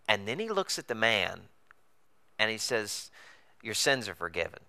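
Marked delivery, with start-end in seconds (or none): 3.6-4.6 low, soft, grave delivery; quiet pronouncement. Retold or imitated. Jesus to the paralyzed man, quietly pronouncing. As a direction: say it gently and low, after a pause.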